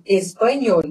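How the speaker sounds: "espanhol" with a firm ny and clear L. Shown as a demonstration. Teacher shows tongue position, ny in "espanhol". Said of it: "Quando eu tô pronunciando".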